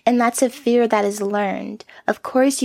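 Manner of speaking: normal talking voice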